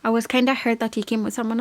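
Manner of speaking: lightly voiced whiny girl; imitating Moira. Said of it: "at first she was just like".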